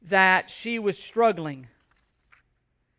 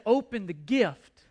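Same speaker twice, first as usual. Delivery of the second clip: gentle urging. Retold or imitated. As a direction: coax her slowly and kindly. Urging girl after her prayer worry.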